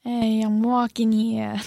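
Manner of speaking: New York accent. Shown as a demonstration. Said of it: "how do you do a New York accent".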